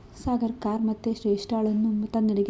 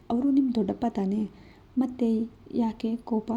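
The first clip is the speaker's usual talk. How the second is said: teasing. Acted. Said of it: "Sagar ಕೆಣಕಿದ್ದ".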